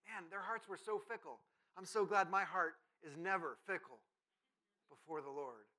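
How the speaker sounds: mock-sincere self-congratulation; sarcastic. Preacher comparing his own heart to the Israelites', sarcastic. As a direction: say it with understated irony. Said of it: "That's sarcasm".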